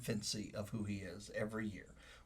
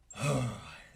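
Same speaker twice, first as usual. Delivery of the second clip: awed sigh. Retold or imitated. Awed reaction to daughter's gift.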